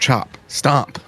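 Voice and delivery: high, yelled, shouted delivery. In a game scene, a character calls a command to a fighter, yelling out. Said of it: "I yell out at Chop".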